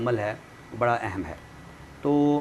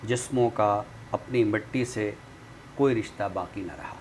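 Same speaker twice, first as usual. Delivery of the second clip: poem recitation. Acted. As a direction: recite each image with weight and pauses. Recites a nazm on the show.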